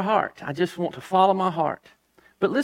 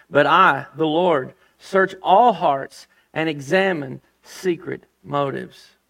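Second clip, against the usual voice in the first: voice of the Lord; 3 semitones lower, 3 dB louder, slower than usual. Acted. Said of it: "Jeremiah said".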